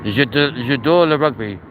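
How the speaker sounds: lightly hammed French accent; mock French accent, only slightly shifted; put-on French accent. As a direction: say it like a proud Frenchman. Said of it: "Your French accent is fabulous".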